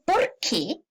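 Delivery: slow, drawn-out POR QUÉ, accent on QUÉ; marked accent on QUÉ. Shown as a demonstration. Teacher pointing out the accented word, slow and emphatic QUÉ. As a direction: spell out POR QUÉ syllable by syllable. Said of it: "con tilde".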